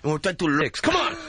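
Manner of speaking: mock Latino accent, mild protest; offended Latino. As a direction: complain in a Latino lilt. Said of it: "Don't make fun of Latinos".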